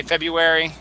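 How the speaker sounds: February as FEB-yoo-ery; February without R. Shown as a demonstration. Host describing fast talk, FEB-yoo-ery for February. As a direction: let the first R vanish from February. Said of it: "when I'm talking really fast".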